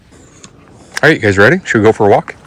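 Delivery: bright, loud call to the dogs; rally the dogs for a walk. Real, not acted.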